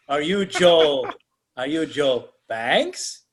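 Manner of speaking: slow, stretched-out questioning; lightly voiced islander, word by word; hint of a ponderous native greeter. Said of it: "this one native comes out".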